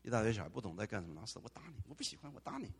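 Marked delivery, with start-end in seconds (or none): 1.4-2.7 put-on childish tantrum. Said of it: "像小弟弟一样".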